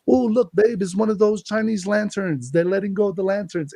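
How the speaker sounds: high, eager pointing out to his wife; excited. Retold or imitated. Retold excited sighting to wife.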